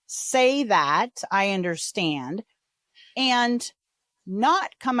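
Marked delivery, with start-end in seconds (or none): 1.3-2.4 sincere I understand. Shown as a demonstration. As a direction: say "I understand" as if you truly mean it. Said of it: "So how do you say that".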